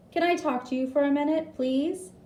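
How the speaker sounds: high, fast doctor voice; lightly voiced doctor asking; doctor's voice. A narrator's reading. Doctor asking nurse for a minute, quick and high.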